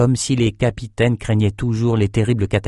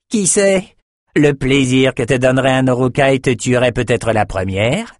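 crude taunt; 4 semitones higher than usual. Acted. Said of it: "y alla encore plus fort".

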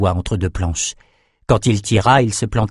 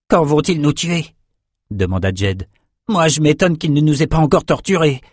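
higher-pitched character voice, worried question then remark; lightly voiced anxious prisoner; 6 semitones higher than usual. A narrator's reading. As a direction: lift the pitch slightly for a captive wondering about his fate. Voices Jed in dialogue.

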